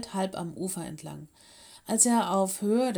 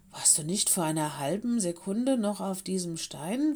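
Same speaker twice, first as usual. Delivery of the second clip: hushed, amazed question; astonished whisper. Acted. Lenny whispers his amazement to the wildcat. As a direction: whisper it in disbelief. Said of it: "fragte Lenny erstaunt".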